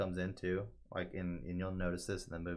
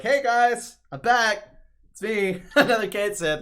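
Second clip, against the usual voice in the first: high, loud, excited mascot voice; cheery character greeting; 13 semitones higher, 12 dB louder, slower than usual. Retold or imitated. Retelling the replacement Cait Sith walking up, excited greeting. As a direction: make a big upbeat entrance, imitating a game character.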